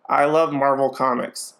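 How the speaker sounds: lightly gruff, toned-down American accent; Benedict Cumberbatch. Shown as a demonstration. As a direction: flatten it out and drop it slightly, a bit gruff. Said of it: "he kind of lowers his tone".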